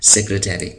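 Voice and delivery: teacher's model pronunciation; careful model word. Shown as a demonstration. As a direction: set the word apart as a model. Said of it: "तो उसको कहते हैं".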